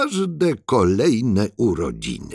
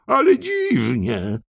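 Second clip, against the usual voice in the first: calling out; 4 semitones higher than usual. Acted. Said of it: "wołał".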